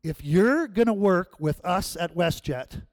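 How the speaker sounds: mock-stern counter agent. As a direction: put him in his place as the agent. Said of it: "And she said".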